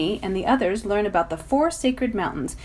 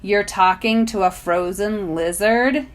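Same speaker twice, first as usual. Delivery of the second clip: ominous; 4 dB louder, slower than usual. Acted. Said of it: "he says ominously".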